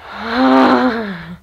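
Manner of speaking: long breathy exhale; mock swoon sigh. Smelling an ugly passerby, mock swoon sigh. Reacting to someone smelling good.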